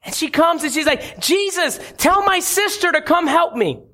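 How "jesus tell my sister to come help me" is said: higher-pitched, mildly fretful plea; acted anxious complaint. Martha complains to Jesus about her sister, mildly anxious. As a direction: plead like a harried sister wanting help. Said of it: "she gets all restless, anxious".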